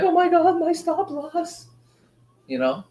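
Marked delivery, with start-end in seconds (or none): 0.0-1.7 very high, squeaky panicked voice; mock the trader fearing his stop loss; imitating a stressed trader, very high and strained. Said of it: "You'd be like".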